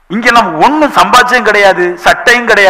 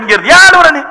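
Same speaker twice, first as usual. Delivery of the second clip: mild acted shout, pitched up; retold scolding shout; 4 semitones higher than usual. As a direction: scold the crying caller, half-raised voice. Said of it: "சத்தம் போட்டு கேட்டேன்". (லேசாகக் குரல் உயர்த்திய அதட்டல்)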